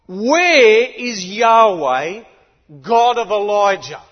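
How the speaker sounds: slow, loud calling yell; a prophet shouting across the Jordan. Retold or imitated. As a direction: call it across the river. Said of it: "He yells it out".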